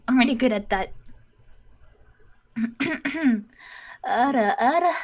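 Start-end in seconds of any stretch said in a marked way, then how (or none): 4.1-4.9 teasing anime-style Ara Ara. Acted. Student performs on teacher's request, a light Ara Ara. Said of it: "Give me your best Ara Ara".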